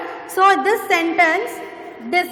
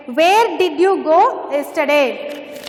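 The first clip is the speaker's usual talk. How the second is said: slow model reading. Shown as a demonstration. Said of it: "which is where".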